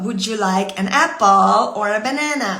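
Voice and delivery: loud, clear English sample sentence; English phrase demo. Shown as a demonstration. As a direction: model the phrase for parents to repeat. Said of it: "pour dire ça". (phrase anglaise dite fort comme exemple)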